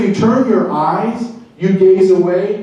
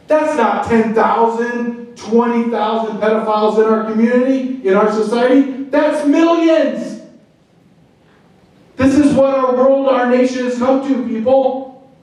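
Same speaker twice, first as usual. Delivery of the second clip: rising, higher impassioned pleading; passionate; 5 semitones higher than usual. Real, not acted. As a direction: pour the outrage into it. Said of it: "If I sound passionate, if I sound a little angry".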